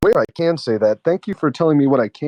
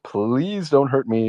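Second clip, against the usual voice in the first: mock pleading; much slower than usual. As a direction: beg slowly, playing scared. Mock pleading, scared victim act.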